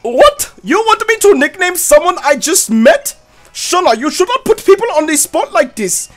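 shy Trevor voice. Acted. Player voices Trevor put on the spot, high voice.

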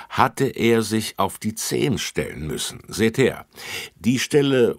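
officer explaining. Acted. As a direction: lay out the clues to kids.

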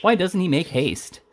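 high, drawn-out impatient exclamation; exclaimed. A narrator's reading. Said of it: "exclaimed Missus Rogers".

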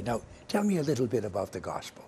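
a light hint of an old Irish grandmother's brogue; Nana's Irish brogue. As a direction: lightly imitate Irish Nana quizzing a grandchild. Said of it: "in her little brogue".

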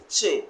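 "che" said as a stressed single syllable. Shown as a demonstration. Teacher showing where stress goes, stressed che. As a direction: put firm stress on "che". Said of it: "place stress on the che".

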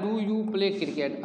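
slow, whole question read in one go; teacher reading a question; slow example question. Shown as a demonstration. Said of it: "teacher reads example question".

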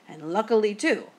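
"too" drawn out teasingly; teasing drawn-out word. A narrator's reading. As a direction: tease by stretching out "too". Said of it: "drew out the last word teasingly".

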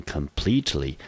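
completely said kʰəm-PLIT-li, stress on plete; teacher models completely for the class; model pronunciation. Shown as a demonstration. 老师示范completely的读音. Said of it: "我们就念成completely".

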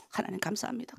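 very soft hushed thanks to God; hushed prayer. Shown as a demonstration. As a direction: murmur the thanks quietly. Demonstrates morning prayer. (조용히 속삭이는 기도)

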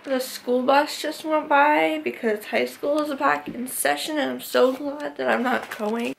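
talking around a retainer; words slurred by a retainer; wearing a retainer. Real, not acted. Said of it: "It's so hard to talk with my retainer".

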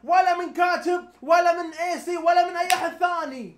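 loud heated rebuttal, each ولا punched; heated shouting. Real, not acted. Arguing with a friend over the plot, loud and heated. Heated argument about the story.

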